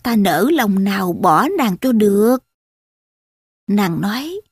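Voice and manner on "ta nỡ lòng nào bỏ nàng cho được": mildly reassuring, understated; lightly acted soothing reply; consoling. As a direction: comfort her with a touch of tenderness. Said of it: "Trác an ủi".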